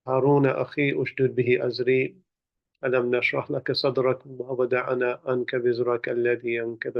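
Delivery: quick, fluent liturgical recitation; Arabic opening prayer. Real, not acted. Speaker opening the gathering with blessings, reciting prayerfully. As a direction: recite Arabic invocations in a steady, formal flow.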